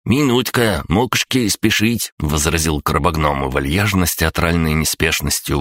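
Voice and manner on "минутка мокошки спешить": creature voice. A narrator's reading. Crab-gnome creature voice.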